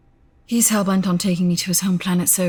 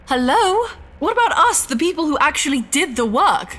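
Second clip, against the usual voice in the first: high, incredulous hello; indignant; 9 semitones higher than usual. Acted. Scientist offended the ship gets thanked, high and incredulous. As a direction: demand credit, offended.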